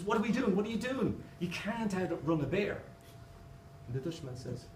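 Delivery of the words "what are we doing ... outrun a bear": much higher, frantic disbelief; mock alarm at his calm friend; joke-teller's high panicked voice; panicked shriek. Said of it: "the Irish guy says".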